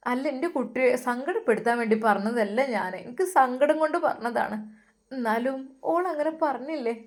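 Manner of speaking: mother explains she spoke from sorrow; sorrowful mother. Acted. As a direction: voice her grief for him.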